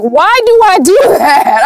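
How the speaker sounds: high, laughing self-questioning; laughing bafflement. Real, not acted. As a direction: crack up while questioning your own habit. Laughing at her own habit.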